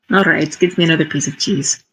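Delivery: mildly resigned, quick and understated; resigned sigh. Acted. Character sighs and gives in to raccoon offering cheese, mildly resigned. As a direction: give in with a touch of weariness. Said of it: "Just sighs and says".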